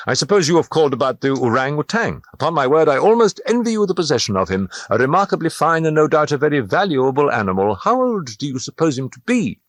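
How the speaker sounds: butter the sailor up; Dupin, friendly flattery. A narrator's reading.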